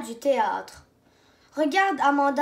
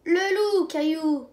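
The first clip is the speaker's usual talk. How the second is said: cry out; 2 semitones higher, 3 dB louder, slower than usual. Acted. Amanda warns Caillou of the wolf, raised call. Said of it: "crie Amanda".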